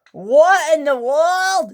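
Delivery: high, loud, slow exclamation; stunned high cry; shocked. Acted. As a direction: gasp it out in disbelief. Shock at crash.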